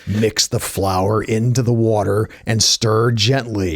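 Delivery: a hint of hushed, menacing informant, slow; slow, lightly menacing hushed delivery; Deep Throat. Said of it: "in these hushed tones".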